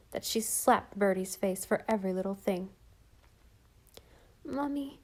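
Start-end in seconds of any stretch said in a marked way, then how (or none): 4.4-5.0 sleepily. Acted. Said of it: "he said sleepily".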